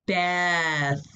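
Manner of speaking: "Beth" with a stretched "eh" vowel; short E sound. Shown as a demonstration. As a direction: linger on the "eh" in "Beth". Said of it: "That's the short E sound".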